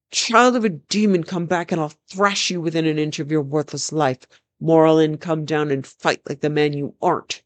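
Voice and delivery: hammed-up threat from the battlements; raging king. Naked king threatens the fleeing prince, mock raging. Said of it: "screaming and waving his fists".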